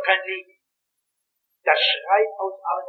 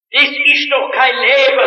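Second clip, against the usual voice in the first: louder and slow, "Das ist doch kein Leben" leaning hard on "Das"; emphatic lament; 5 semitones higher, 5 dB louder than usual. Acted. Preacher to congregation, repeating the lament in a loud slow voice. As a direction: let the complaint ring out slowly.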